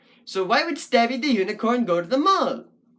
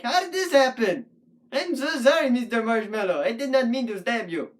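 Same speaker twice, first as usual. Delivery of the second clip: mock-horrified apology; 3 semitones higher than usual. Puppet apologising to a marshmallow stabbed by accident, mock horror. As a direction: plead innocence with exaggerated dismay.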